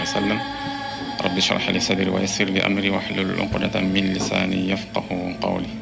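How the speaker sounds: rapid, even recitation of an opening prayer; recited Arabic prayer. Real, not acted. Imam opening his talk with an invocation, recited prayer. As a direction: recite the invocation quickly by heart.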